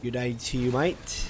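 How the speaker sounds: put-on Australian accent. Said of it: "Australian accent has been one of the".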